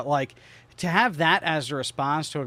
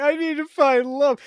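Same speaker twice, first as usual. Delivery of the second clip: put-on panicky girl; 11 semitones higher, 4 dB louder than usual. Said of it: "I'd be like".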